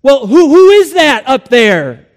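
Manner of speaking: high, loud stammered question; urgent shout to someone above; crying out. Acted. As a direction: call up in anxious confusion. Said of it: "he cried".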